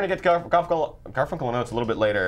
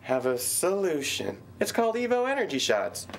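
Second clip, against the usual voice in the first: put-on a gentle kids' TV host voice, higher; Mister Rogers; 6 semitones higher than usual. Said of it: "in the voice of Mister Rogers".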